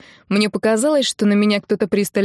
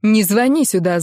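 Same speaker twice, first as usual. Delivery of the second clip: зло; 3 dB louder than usual. Acted. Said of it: "зло сказала ей я".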